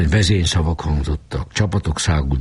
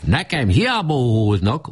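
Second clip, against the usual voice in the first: high, forceful roar at the crowd; roaring speaker; 8 semitones higher than usual. A narrator's reading. The speaker roaring at the opposing faction. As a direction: bellow it back at the hecklers. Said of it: "ordított a szónok".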